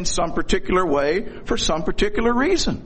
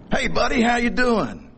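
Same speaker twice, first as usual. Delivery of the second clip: pet talk; 7 semitones higher than usual. Retold or imitated. Greeting his dog at home.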